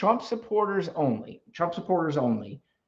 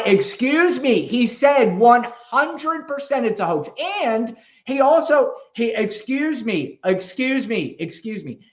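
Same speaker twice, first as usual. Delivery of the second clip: louder, higher insistent interruptions; talking over; 6 semitones higher, 3 dB louder than usual. Real, not acted. Host talking over a caller who keeps interrupting, louder. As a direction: push through the interruption.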